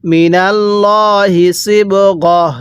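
slow, drawn-out tajweed chant; Quran recitation. Shown as a demonstration. Teacher recites the verse for students, slow tajweed chant. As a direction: intone each syllable slowly like a reciter. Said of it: "এরকমভাবে পড়ব".

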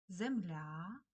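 земля with a lengthened stressed last vowel; stress on final Я. Shown as a demonstration. Teacher showing children where stress falls, земля stressed on Я. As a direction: draw out the Я ending of земля. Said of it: "наголосна Я".

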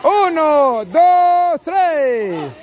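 drawn-out race countdown; starting countdown. Real, not acted. Host starts the pairs on three, announcer countdown.

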